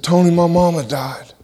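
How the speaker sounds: hushed whisper of grief. Retold or imitated. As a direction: breathe it out, barely voiced. Friend breaks news of death.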